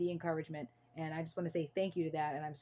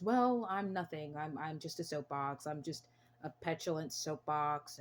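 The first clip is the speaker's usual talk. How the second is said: deflated self-quote; slower than usual. Retold or imitated. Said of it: "my voice was very low".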